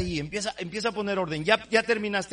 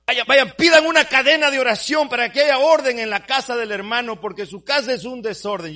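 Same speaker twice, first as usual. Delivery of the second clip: mock frantic plea; 5 semitones higher, 8 dB louder than usual. Mocking believer begging prayer.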